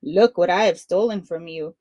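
a touch of teasing; a hint of mockery; mild taunt. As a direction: lightly gloat. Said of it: "Punia taunted".

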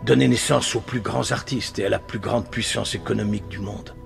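subdued, solemn nostalgia; wistful reminiscence. Acted. Panelist recalling what the country once was, wistful reminiscence. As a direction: come down from the rant into sober remembrance.

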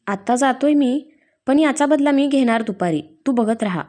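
a hint of teasing warning; playful threat. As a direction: threaten her, half joking. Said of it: "धमकीवजा बोलला".

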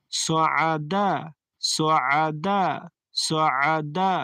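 সোয়াদা with throat squeeze in the middle, long a; আইনে চাপ দিয়ে; throat-pressed ain. Shown as a demonstration. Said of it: "আইনে চাপ দিবেন".

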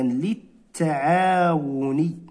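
للتعاون drawn out, lit-ta-aa-wun, doubled t; slow model word. Shown as a demonstration. Teacher modelling the word to pupils, slow. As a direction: stretch للتعاون slowly. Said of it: "تصبح هكذا".

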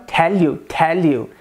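"tell you" with a clear, light Indian L; Indian English accent. Shown as a demonstration. Teacher showing the Indian L, Indian accent. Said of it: "Já no inglês indiano".

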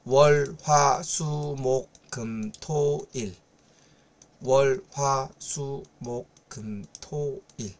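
clipped single-syllable Korean days, listed briskly; short Korean day names. Shown as a demonstration. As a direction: show how the days are shortened in speech. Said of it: "এইটা কথা বলতে". (ছোট করে Korean বারের নাম বলা)

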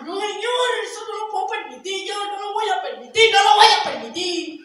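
building to a loud no; boy protesting the shoemaker's plan, loud refusal; indignant refusal. Acted. Boy refuses to let donkey die.

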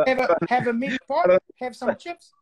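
imitated Maori accent, as if apologizing; apologetic Maori impression. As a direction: offer it like an apologetic Maori guy. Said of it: "they sound like they apologizing".

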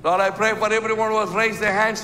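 fervent pastor's prayer over the congregation; closing prayer. Acted. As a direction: pray over them, rising and falling with music.

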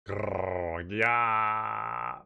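drawn-out growl into a roar; growl, then open it into a cry; monster growl. Acted.

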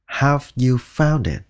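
slow, careful "Have you found it?"; slow full form. Shown as a demonstration. Teacher showing the first of two ways, slowly. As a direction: take it slowly and fully. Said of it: "có thể nói hai cách".

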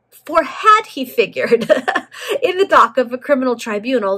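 real laugh breaking into the reading. Real, not acted. Narrator fluffing a retake of the tribunal line, laughing.

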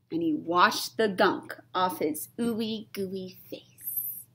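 spooky hushed whisper; breathy storytime whisper. Acted. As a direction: whisper it like a secret in the dark. Whispered narration.

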